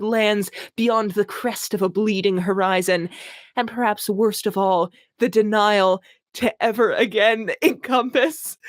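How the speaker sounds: mock-grand reading of purple prose; hammed-up literary reading; dramatic reading. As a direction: read it like overwrought fantasy. Reading a bad novel aloud.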